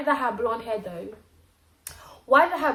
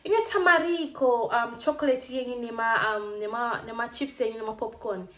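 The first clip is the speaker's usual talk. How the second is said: shopkeeper quote. Retold or imitated. Retelling the shopkeeper's price quote, lightly imitated. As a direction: mimic the shop man quoting prices in Shona. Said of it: "this person looks at me".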